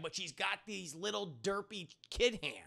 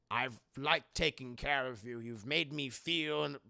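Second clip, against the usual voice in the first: slow, lowered, halting sincerity; heartfelt admission; 3 semitones lower, slower than usual. Acted. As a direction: confess it slowly and earnestly. Old man's heartfelt admission.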